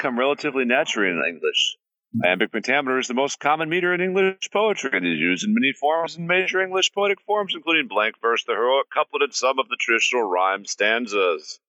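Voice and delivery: movie trailer voice. Pretend. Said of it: "Can you do that, like, more of that, but, like, in your, like, movie trailer voice?".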